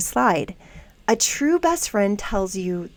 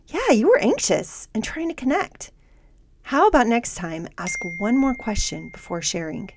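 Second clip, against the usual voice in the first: supportive coach voice; 3 dB quieter than usual. Acted. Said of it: "supportive coach voice says".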